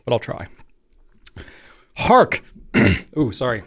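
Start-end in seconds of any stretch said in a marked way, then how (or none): 2.0-2.4 high, theatrical British herald's cry; attempted British accent. Host attempting a Shakespearean show intro, high mock British accent. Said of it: "somewhat of a British accent".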